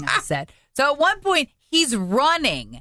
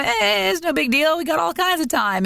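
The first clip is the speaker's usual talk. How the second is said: high, breezy mock nonchalance; easygoing lollygagging; 6 semitones higher than usual. Parade walker used to being in the back, carefree. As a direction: play it carefree, voice lifted high. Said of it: "we're used to kinda lollygagging".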